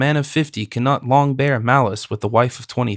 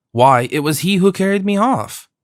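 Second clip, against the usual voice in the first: shocked; 7 semitones higher than usual. Acted. Wife shocked by abductor's name.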